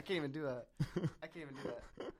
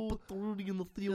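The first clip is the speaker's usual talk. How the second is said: slightly higher Cosby mumble; Bill Cosby impression; 5 semitones higher, 4 dB quieter than usual. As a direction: imitate Cosby. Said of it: "Bill Cosby impression".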